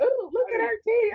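high-pitched mock cooing; a famous singer's voice. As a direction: copy his ogling in a squeaky falsetto. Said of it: "He was like".

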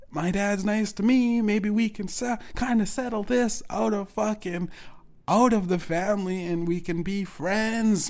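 high, pleading, mock innocent; naive hopeful self. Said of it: "And I said".

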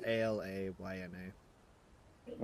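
letters "A L A Y N" said one by one; spelling it out. Shown as a demonstration. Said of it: "It's spelled".

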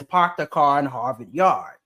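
put-on Boston accent with dropped r's; mock Boston accent. Host quoting all she knows from Boston, mock Boston accent. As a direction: do the stock Boston accent line. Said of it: "All I know from Boston".

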